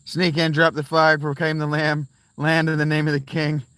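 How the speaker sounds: put-on playful English accent spoken like a royal proclamation; British accent. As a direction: put on a hammed-up London accent. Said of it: "It's that damn accent".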